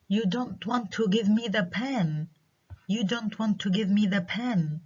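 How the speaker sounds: "give me the pen" in a lifted questioning tune; statement as question. Shown as a demonstration. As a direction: turn "You don't want to give me the pen" into a question by tune. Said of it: "إذن rising intonation".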